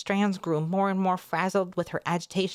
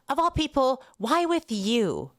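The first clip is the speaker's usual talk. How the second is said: howled; 6 semitones higher, slower than usual. A narrator's reading. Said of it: "Kiriyama howled".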